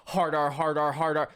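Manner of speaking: loud, punched-out chant; retold shouted outburst. Host imitates troll spamming Discord voice chat, loud outburst. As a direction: mimic a troll blurting it over and over.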